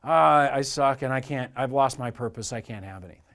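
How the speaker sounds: hammed-up woe-is-me, fading; self-pitying victim. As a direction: act out a defeated whine, trailing away. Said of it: "Sort of like a victimhood mentality".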